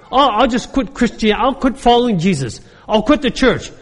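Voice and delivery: whiny mock complaint. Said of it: "the attitude of a lot of people".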